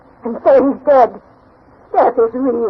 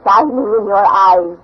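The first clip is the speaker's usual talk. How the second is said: tender; slower than usual. Acted. Granny tenderly answering boy.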